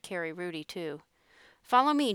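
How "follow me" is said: high, loud call to an animal; coaxing call. A narrator's reading. Jake calls the mule up the ramp, coaxing call. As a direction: call brightly to lead it on.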